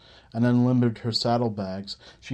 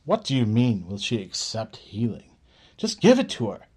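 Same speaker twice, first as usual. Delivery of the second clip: frustrated. Acted. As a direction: snap the last words impatiently.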